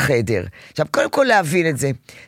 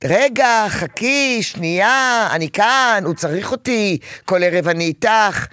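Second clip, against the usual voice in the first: harried mother; 5 semitones higher, slower than usual. Retold or imitated. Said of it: "היא בכלל בחדר אחר".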